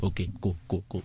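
put-on Finnish MC's accent. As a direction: softly play the agreeable Finnish host. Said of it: "Guy's like".

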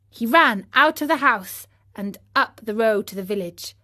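ordinary delivery, nothing marked

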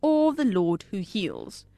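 slow, measured list with each option set apart; quiz host reading options. Acted. Quiz host offering listeners four answers, slow and measured. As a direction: read each choice slowly, rising until the last falls.

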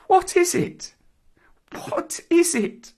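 put-on very high, distressed boy; tearful bewilderment. A narrator's reading. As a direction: ask it in frightened confusion, high-pitched. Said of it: "caught his breath and sobbed".

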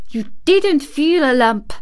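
unvoiced fierce contradiction; fierce whisper. A narrator's reading. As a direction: hiss it out fiercely. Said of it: "contradicted Mary fiercely".

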